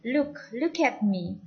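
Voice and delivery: "look" said as "luk", slowly; U vowel. Shown as a demonstration. Teacher repeats for learners, "look" with U sound. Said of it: "pakai U".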